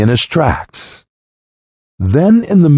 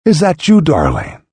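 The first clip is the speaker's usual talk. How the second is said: gently; 4 semitones higher than usual. Acted. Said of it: "The mother said gently".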